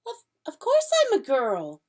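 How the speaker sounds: put-on young Lucy, a bit indignant; Lucy's voice insisting she's a girl. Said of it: "said Lucy".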